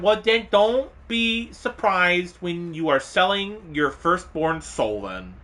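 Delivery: slow, drawn-out sarcastic jab; sarcastic retort. Real, not acted. Telling users who skip terms, slow sarcastic jab. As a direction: spell it out slowly, dryly.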